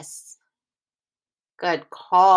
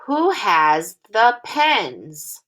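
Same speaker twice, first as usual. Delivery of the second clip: slow read-along; slower than usual. Shown as a demonstration. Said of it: "read this sentence together".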